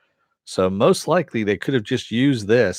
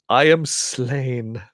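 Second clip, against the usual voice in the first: overacted death scene; 4 semitones higher, much slower than usual. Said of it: "acting out a death scene".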